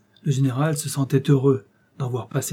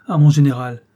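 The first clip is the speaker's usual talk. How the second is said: stammering; 3 semitones higher, 6 dB louder than usual. Acted. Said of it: "balbutia l'intendant".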